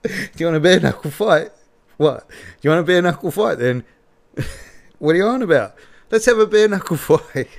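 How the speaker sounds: mock bellowed fight offer with laughs breaking in; imitating a bellowing challenge. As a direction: ham up a bar-brawl challenge, rattling it off. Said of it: "went viral for bellowing".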